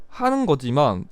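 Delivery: usual speaking voice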